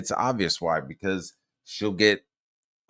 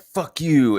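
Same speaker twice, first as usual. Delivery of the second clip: higher, louder imitation of her cursing; mock an angry blow-up; retold angry outburst; 7 semitones higher, 6 dB louder than usual. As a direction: throw it out as her retort.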